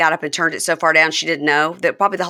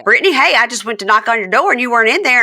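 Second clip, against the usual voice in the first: higher, eager voice; imitating Andy; 5 semitones higher, faster than usual. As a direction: rush it out brightly.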